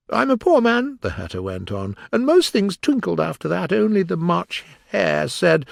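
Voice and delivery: high, anxious Hatter; nervous Hatter voice. Acted. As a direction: plead nervously. The Hatter pleading.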